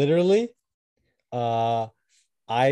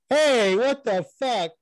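high, loud, drawn-out protest; indignant outburst; 11 semitones higher, 5 dB louder, much slower than usual. Retold or imitated. Actor protesting stolen lines, indignant outburst. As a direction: stretch it out in mock outrage.

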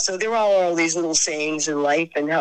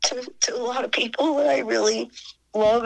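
high, tearful and breaking; crying; 7 semitones higher than usual. Real, not acted. Telling the interviewer about goodbyes, crying. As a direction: push the words through tears. Saying goodbye to loved ones.

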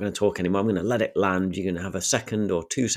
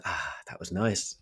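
contented sigh; 2 semitones lower, 6 dB quieter than usual. Retold or imitated. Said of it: "let the audience kind of".

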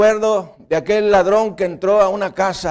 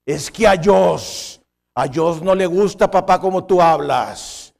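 put-on child's voice; 6 dB louder than usual. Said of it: "Le decía a su papá".

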